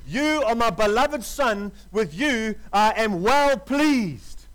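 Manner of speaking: slow, solemn voice of God; voice from heaven. Acted. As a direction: let each word land slowly, like heaven speaking. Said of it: "a voice came from heaven saying".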